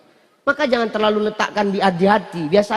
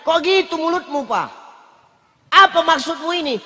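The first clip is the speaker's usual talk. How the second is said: imitating wife; 6 semitones higher than usual. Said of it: "Apa kata dia?".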